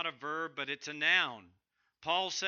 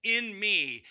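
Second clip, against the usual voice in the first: slow, loud, drawn-out determination; loud slow vow of resolve; intense resolve; 5 semitones higher, 8 dB louder, slower than usual. Shown as a demonstration. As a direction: grind it out with slow force. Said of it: "we might say it this way".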